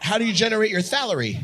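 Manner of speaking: "salary" said with th for s; mock lisped "salary"; teasing lisp. Mocking lisp with loaded s words.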